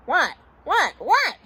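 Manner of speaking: quick, high, separate bursts; panicked. Acted. Bert panics at Ernie's gasp, high anxious questions. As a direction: fire off each question with rising alarm.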